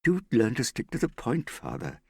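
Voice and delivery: high exasperated reproof, dropping on the last word; daughter's snippy correction; irritable. A narrator's reading. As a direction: tell him off impatiently. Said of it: "Hester said irritably".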